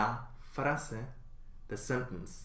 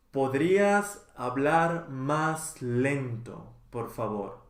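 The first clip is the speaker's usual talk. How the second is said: slow model; slower than usual. Shown as a demonstration. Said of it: "teacher models phrase twice".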